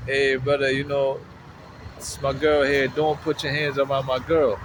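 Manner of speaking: light imitation of a Jamaican accent. Man warning another off his girlfriend, lightly imitated Jamaican accent. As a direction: quote him with a hint of Jamaican. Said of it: "with a Jamaican accent".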